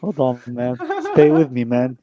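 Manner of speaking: half-laughing hold on; laughing warning. Real, not acted.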